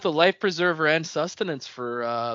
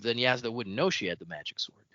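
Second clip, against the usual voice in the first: whispered aside; 5 semitones lower, 7 dB quieter than usual. Real, not acted. Speculating in a hushed aside.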